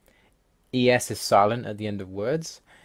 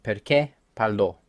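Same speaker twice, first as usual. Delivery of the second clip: Perché and parlò stressed on their last vowels; perCHÉ parLÒ, Italian accents marked by stress; final-syllable stress. Shown as a demonstration. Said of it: "Accents on letters just show the stress".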